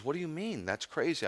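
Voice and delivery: retold baffled protest, pitch jumping up; incredulous. Friend reacts to rabbi's odd hunch, incredulous. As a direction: imitate a disbelieving friend, high-pitched.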